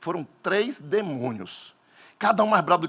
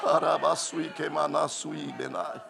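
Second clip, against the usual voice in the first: speaking in tongues; 5 dB quieter, slower than usual. Real, not acted. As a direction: murmur in tongues. Hablar en lenguas.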